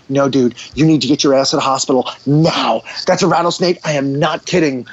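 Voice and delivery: a no-nonsense order to get to the hospital; dead serious. Retold or imitated. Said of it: "He was dead serious".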